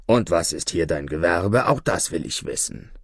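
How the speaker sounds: lightly voiced low grumbling judge. Judge questioning the devil's trade, mild low grumble. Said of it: "brummte der Richter".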